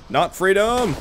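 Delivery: "Not freedom!" yelled like a battle cry; mock battle cry. Gamer mocking his own battle cry, yelled "Not freedom!". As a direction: shout "Not freedom!" as a joke charge. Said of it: "every time I've yelled freedom".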